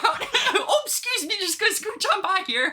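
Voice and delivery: high polite Michigan nice; Michigan accent. Pretend. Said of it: "Is your Michigander coming out?".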